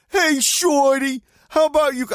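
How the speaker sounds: high, loud, drawn-out catcall; imitated street holler, stretched out; retold shout. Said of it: "next thing I hear a shout".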